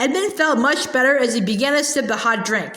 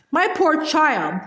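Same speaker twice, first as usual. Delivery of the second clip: higher, slow and honeyed; sweet different voice; 4 semitones higher, slower than usual. Acted. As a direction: switch to a falsely kind tone. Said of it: "she said in quite a different voice".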